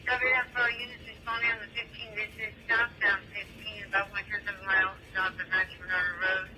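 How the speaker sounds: dispatcher over a two-way radio; police radio. Real, not acted.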